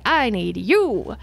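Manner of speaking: single them out; recruiting speech. Acted. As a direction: governor urging the youth to fight. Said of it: "He points to you specifically".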